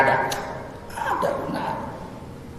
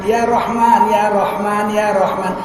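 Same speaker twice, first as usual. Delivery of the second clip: calling out Rahman; 4 dB louder, slower than usual. Shown as a demonstration. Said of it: "panggillah Rahman".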